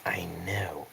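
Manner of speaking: very soft, voiceless whisper; whispered reply. Acted. Whispering back to a companion about the candidates, barely audible. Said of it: "I whisper back".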